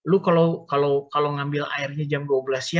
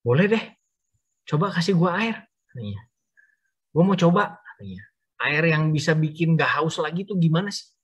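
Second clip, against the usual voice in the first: higher, brighter pleading to taste it; eager request; 4 semitones higher than usual. Acted. Woman eagerly asking Jesus for the miracle water, higher. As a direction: ask keenly, almost bouncing. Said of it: "Terus dia tanya".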